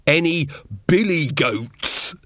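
slow, drawn-out silly words; lightly voiced dotty wizard; giddy bursar. A narrator's reading.

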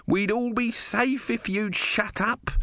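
very high, strained, slow scream; high-pitched narrated outburst; mock scream. A narrator's reading. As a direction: scream it in exasperation, volume held back. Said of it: "Om screamed".

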